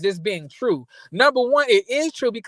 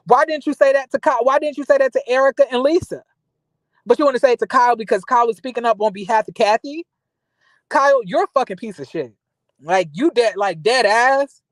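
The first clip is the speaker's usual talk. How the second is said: real indignant rant; 3 semitones higher, 3 dB louder than usual. Real, not acted. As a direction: call her out angrily. Vlogger ranting directly at Kyle.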